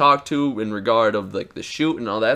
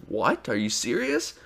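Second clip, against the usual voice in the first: dumbstruck; 6 dB quieter than usual. Retold or imitated. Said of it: "my mouth was open".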